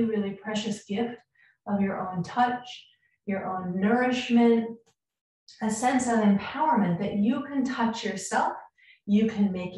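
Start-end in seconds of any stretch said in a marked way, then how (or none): 0.0-3.8 soft, unvoiced whisper. Real, not acted. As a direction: breathe the words out in a whisper. Soft emphasis during self-touch.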